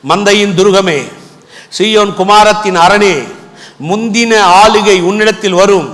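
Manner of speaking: slow, drawn-out verse reading; measured proclamation with pauses between phrases; scripture declamation. Acted.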